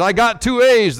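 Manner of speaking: put-on a child's high, happy cry; proud and thrilled about his grades; gleeful cry. A narrator's reading. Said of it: "the small boy cried ... filled with glee".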